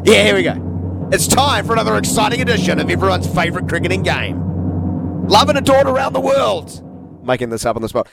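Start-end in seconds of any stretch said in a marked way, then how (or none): 0.0-6.8 big game show announcer voice; booming kids show opener. Pretend. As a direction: hype it up like a TV quiz intro. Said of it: "we need some dramatic music for this".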